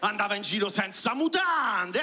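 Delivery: slow, drawn-out smug questioning; mocking a jerk. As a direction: play the victim-blaming idiot, stretching the words. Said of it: "le solite teste de cazzo che dicono quelle cose tipo".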